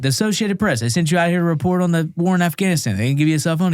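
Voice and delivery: high-pitched retold disbelief; imitating your own incredulous outburst. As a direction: question him as if it's absurd. Incredulous questioning of the reporter.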